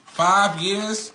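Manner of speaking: stunned disbelief. Real, not acted. Learns child is not his.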